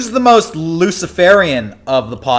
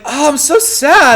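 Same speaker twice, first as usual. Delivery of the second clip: high, slow mock lament; imitating everyone's showy grief; mock sadness; 8 semitones higher, slower than usual. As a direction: whine it in exaggerated sorrow. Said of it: "Everybody's like".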